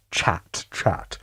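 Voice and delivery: unvoiced whisper to chat. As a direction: hush it to the chat.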